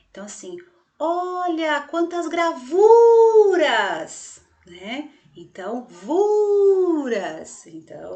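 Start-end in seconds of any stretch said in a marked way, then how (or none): 1.0-4.4 loud, high call with "gravuras" stretched on VU; pretend shout. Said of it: "faz de conta que eu tô gritando". 5.9-7.7 "vuras" called out high and loud, VU held long; stretched VU. Shown as a demonstration. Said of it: "o vu ali eu estiquei um pouquinho mais".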